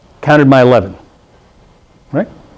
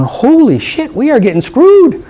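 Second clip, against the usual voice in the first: upset coach; 11 semitones higher, slower than usual. Retold or imitated. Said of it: "He's going".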